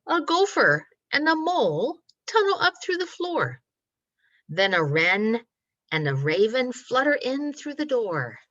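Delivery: measured, rhythmic picture-book narration; reading to children. A narrator's reading. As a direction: draw out the rhymes for little listeners. Reads story to children.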